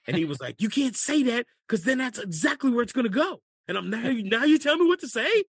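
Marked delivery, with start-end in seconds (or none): 0.6-3.4 retold shout. Caddy's golfer snaps back at him. 3.9-5.4 much higher and louder mock outrage; indignant retort. Comic indignant retort to golfer.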